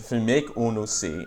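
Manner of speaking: patois phrase "fi make unu see"; Jamaican patois. Shown as a demonstration. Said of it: "in order to make you see".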